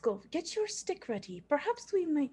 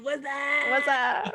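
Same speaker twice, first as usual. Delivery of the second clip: lightly imitating the loud greeting; retelling Haskell's what's up; quoting Haskell; 3 semitones higher, 8 dB louder than usual. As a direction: echo it, a touch louder. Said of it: "It's Haskell's version of".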